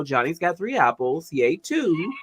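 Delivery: calm quiet tutoring voice; soft gentle version. Retold or imitated. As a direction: say it kindly, the way you meant it. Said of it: "in my head, I wasn't sounding like".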